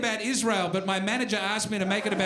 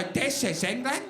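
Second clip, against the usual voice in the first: mock-sad English accent, rising question; mock-forlorn questioning lilt. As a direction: ask it sadly, as if unsure. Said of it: "For them, it's a question. It's a sad question".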